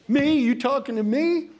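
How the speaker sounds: high, loud mock tough-guy challenge; tough New York cop.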